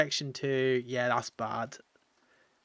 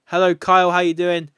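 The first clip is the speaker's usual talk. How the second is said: cheery greeting; 3 semitones higher, 9 dB louder than usual. Real, not acted. Greeting game villager.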